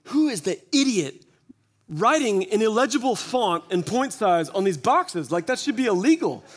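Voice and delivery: mock outrage. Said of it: "because I'm like".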